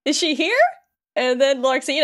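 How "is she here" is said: mock urgent questioning, rising at the end; freaking out. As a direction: blurt it out as an imitated startled hero. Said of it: "And Sora just freaks out".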